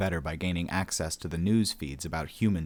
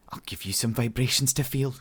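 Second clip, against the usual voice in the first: higher-pitched defiant thought; mildly fierce heroine, raised pitch; 6 semitones higher than usual. A narrator's reading. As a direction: think it as a defiant threat. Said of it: "she thought fiercely".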